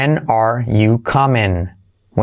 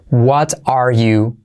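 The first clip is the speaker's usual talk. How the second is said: slow model; much slower than usual. Shown as a demonstration. Slow breakdown for learners.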